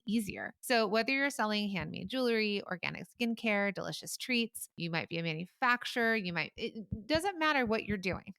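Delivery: upbeat, persuasive podcast ad voice; sponsored ad read. Acted. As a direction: sell Shopify to listeners like a friend. Host reads sponsor ad.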